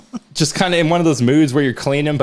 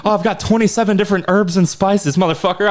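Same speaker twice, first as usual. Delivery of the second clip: Tim the Tool Man impression; 3 semitones higher than usual. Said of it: "Tim the Tool Man Taylor on a grill".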